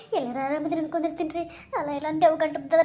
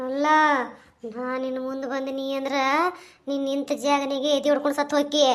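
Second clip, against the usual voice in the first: menacing ghost; 6 semitones lower than usual. Acted. The ghost warning the woman she would die of fright, low hushed menace. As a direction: threaten her in a low, hushed voice.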